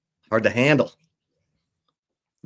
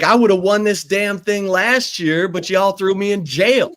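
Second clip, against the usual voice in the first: laughing; 5 semitones higher than usual. Retold or imitated. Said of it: "He was like".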